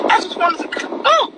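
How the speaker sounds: choking up mid-word, then a high "oh"; fighting back real tears; voice breaking. Real, not acted. Grateful student fighting tears while thanking her mentor. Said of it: "I said I wasn't gonna cry".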